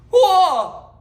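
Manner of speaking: sudden high loud whoa; startled whoa. Acted. Teacher reacting to the cat quote with a high startled whoa. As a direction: jolt back in mock surprise.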